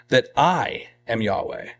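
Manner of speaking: "I" held out as the weighty word; stress on I. Shown as a demonstration. God declaring himself to Egypt, stress on "I". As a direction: lean on "I", then let "am Yahweh" drop. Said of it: "emphasize the word "I".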